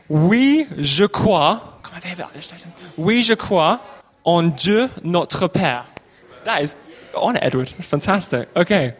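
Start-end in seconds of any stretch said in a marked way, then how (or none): 0.1-1.6 Oui, je crois in French, "wee zhuh krwah"; French lyric demo. Shown as a demonstration. Leader teaches the song line to the church, French. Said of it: "So first bit". 3.0-5.8 slow French line, Oui, je crois en Dieu notre Père; French lyric demo. Shown as a demonstration. Leader models the French song for the congregation, slow. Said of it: "So first bit".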